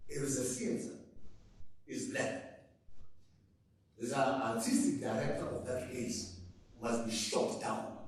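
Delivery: imitated German accent, lightly done; a measured, mild German accent. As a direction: quote a German theatre director in his accent. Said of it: "in his German accent said".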